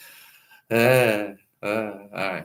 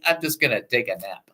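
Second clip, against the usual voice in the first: God, softer and lower, totally unbothered; relaxed God voice; 6 semitones lower, 8 dB quieter than usual. Retold or imitated. God calmly telling panicked disciples he will nap, softly unbothered. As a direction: shrug off the panic with a lazy calm. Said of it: "God's like going".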